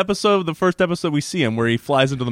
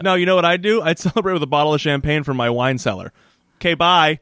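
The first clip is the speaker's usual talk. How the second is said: breezy Elena; 3 semitones higher than usual. Retold or imitated. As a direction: toss it off, lightly imitating her. Voicing Elena's breezy retort.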